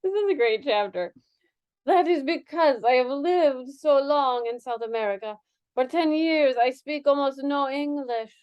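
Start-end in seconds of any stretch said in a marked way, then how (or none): 1.9-8.3 put-on Spanish accent. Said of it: "I need to change my accent right now".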